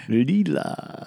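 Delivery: Zapp Brannigan. Acted. Trying out a cartoon captain's catchphrase, put-on voice. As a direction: call the name like a pompous cartoon character. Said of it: "I can't do Zap Brannigan right now".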